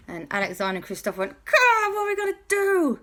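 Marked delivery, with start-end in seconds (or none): 1.4-3.0 high, anxious wail; panicked boys. Acted. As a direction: fret about what to do. Boys panic over trapped friends.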